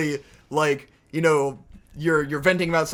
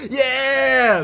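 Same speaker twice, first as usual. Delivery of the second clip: loud whooping Yeah, pitched up; drunken yell; 7 semitones higher, 5 dB louder than usual. Retold or imitated. Drunk partygoers mugging for the camera, loud whoop. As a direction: mimic a drunk partygoer hollering at the lens. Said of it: "turn to the camera and go like".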